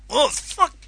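high, slow panicked cry; panicked yelp. Acted. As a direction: squeal it out in panic. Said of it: "Carl tries to pull foot".

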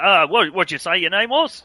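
big hearty booming voice; booming Australian professor. Acted. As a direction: boom it out like a bluff Aussie. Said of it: "It's a very deep, booming voice".

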